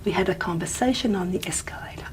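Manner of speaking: softly rhythmic, conversation and escalator on the beat; a little rhythmic. Shown as a demonstration. Lecturer follows the da-da pattern, a little rhythmic. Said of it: "I'm getting a little bit rhythmic there".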